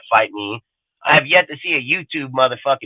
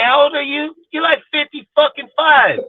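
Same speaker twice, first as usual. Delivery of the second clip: retold scolding; 10 semitones higher than usual. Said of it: "I say".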